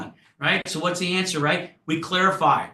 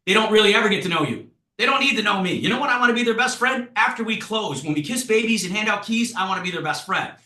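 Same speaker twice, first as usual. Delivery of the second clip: emphatic; 5 semitones higher than usual. Real, not acted. Emphatic coaching point.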